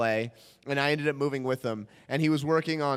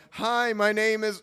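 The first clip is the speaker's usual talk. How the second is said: higher, slow introduction; audition slate; 5 semitones higher, slower than usual. Retold or imitated. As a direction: slate your name with put-on pep. Slating his name at audition.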